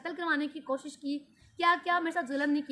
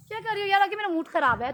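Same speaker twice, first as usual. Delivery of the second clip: exasperated snap; 4 semitones higher, 6 dB louder than usual. Real, not acted. Annoyed at children fidgeting.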